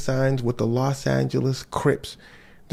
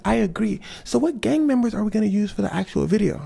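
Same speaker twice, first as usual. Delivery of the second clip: high Michael voice; 6 semitones higher than usual. Acted.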